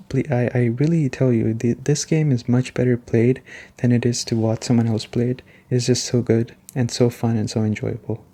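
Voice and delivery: ordinary talk, nothing marked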